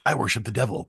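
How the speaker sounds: hammed-up evil villain confession; a hint of a sinister plotter; mad scientist. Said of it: "I'm kidding".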